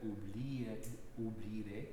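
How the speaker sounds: "oublié" with the accent on the syllable after the opening vowel; stress on second syllable. Shown as a demonstration. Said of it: "it's the second syllable that receive it".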